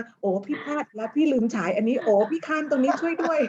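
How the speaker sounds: imitating herself calling for help in a fluster; lightly hammed-up flustered plea; mock panic. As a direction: playfully act out the on-stage panic. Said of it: "ต้องถามโอว่าหลุดไปหลุดมา".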